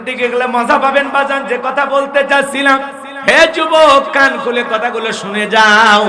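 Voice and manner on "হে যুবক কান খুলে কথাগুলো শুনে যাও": calling out. Real, not acted. Preacher calls out to youth.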